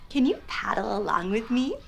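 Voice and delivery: normal talking voice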